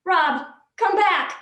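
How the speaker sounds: pleading cry for the dream man to return; plaintive call. Acted. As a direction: call out as the dream slips away. Waking from dream.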